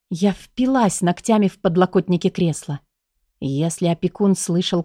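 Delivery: ordinary delivery, nothing marked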